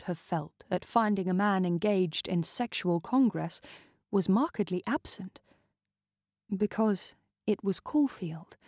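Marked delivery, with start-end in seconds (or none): none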